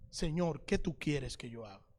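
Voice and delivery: very low, soft plea; humble surrender. Acted. A believer asks the Lord like Saul, humble hushed surrender. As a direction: drop right down, hushed and submissive.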